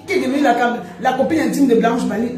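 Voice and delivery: words through laughter; laughing while talking. Real, not acted. Laughing while gossiping to viewers.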